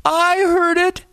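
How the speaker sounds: very high, slow terrified screech. A narrator's reading. Terrified second boy calling back, high screech. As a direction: squeeze it out through a tight throat. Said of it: "His voice was a high screech".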